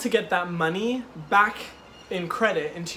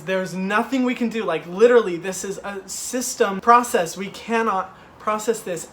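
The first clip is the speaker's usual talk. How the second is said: firm manager; 2 semitones higher, 5 dB louder than usual. Retold or imitated. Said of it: "the manager says".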